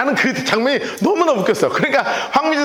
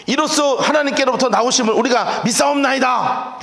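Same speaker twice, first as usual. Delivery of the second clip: disciples' bold declaration; 4 semitones higher than usual. Retold or imitated. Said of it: "했단 말이에요".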